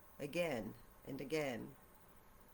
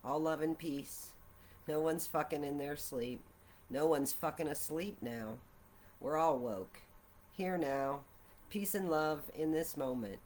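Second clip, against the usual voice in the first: guided meditation. Acted. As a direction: lead listeners gently through a meditation.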